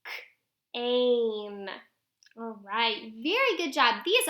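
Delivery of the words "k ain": "k, ain" split, vowel held long; long A word. Shown as a demonstration. Teacher repeats the new word, sounded out. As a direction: pop "k", pause, drawn-out "ain". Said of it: "now I have k".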